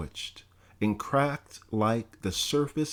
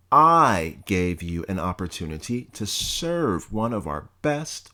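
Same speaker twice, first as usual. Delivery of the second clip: lightly voiced stern president, scolding; a hint of a contemptuous scolding principal; stern college president; 2 semitones higher than usual. Bledsoe berating the student, mildly stern scolding.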